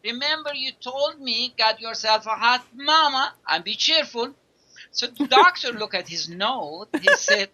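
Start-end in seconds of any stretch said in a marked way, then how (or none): 0.0-4.3 higher, hammed-up American accent. Old patient quoting the doctor's advice, in a mock American accent. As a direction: put on a playful American accent for the patient's punchline. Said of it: "I'm trying to, uh, do a, a American accent".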